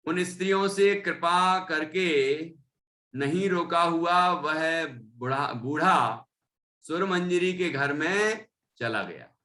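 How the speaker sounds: deliberate read-aloud with drawn-out phrase endings; scripture reading. Acted. Teacher reading the old man's story, measured recitation.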